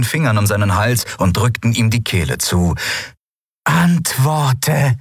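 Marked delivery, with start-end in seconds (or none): 3.6-5.0 high, eerie booming creature voice. Acted. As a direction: boom the command into his head. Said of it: "dröhnte die Stimme der Shayang in seinem Kopf".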